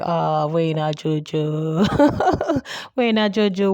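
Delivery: drawn-out teasing call breaking into laughter; slow mock exclamation with a laugh in the middle; amused teasing. Mock calling to Jojo, laughing.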